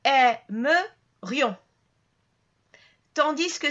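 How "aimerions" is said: Aimerions slow and loud, -rions run together as one syllable; said as one block. Shown as a demonstration. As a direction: draw out Aimerions with ri-ons glided together. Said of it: "on va prononcer tout ensemble".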